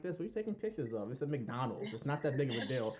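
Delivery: baffled, rushed ranting; incredulous. Retold or imitated. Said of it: "I'm like".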